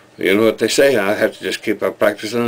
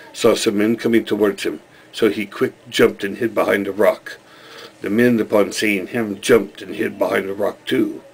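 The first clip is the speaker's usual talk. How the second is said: measured storyteller with a put-on accent; folk tale narration. Telling the tale of Gamal, measured storytelling. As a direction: tell it as a simple village parable.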